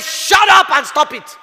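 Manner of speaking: slow firm shouted rebuke; stern shout. Retold or imitated. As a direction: shout it down slowly.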